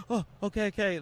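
mock nervous, high-pitched okays; nervous chef imitation. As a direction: mimic a jittery chef eager to get away. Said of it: "runs off all nervous".

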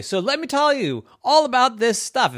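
bright chatterbox opening; eager little girl. A narrator's reading. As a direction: start gushing like a chatty child. Yvette gushing.

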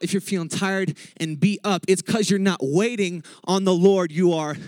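fired-up preaching. Real, not acted. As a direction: build the list and drive it home to the church. Preaches at full force.

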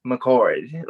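McCord in a badly imitated American accent; terrible American accent. Shown as a demonstration. Scot showing how Americans say McCord, in a poor American accent. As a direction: attempt an American pronunciation of McCord. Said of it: "that was my terrible accent there".

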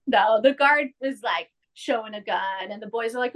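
ordinary delivery

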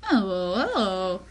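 mimicked odd, swooping intonation; imitated changing inflection. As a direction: slide the pitch up and down in imitation. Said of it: "her inflection changes. She's like".

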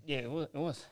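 holding back tears while recalling the babies; father recalling his premature twins, quietly choked up. Real, not acted. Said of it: "Take your time, man".

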